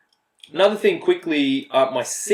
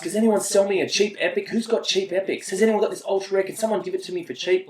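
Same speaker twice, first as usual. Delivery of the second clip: whiny beggar; 7 semitones higher than usual. Retold or imitated. Mimicking teammate begging for cards.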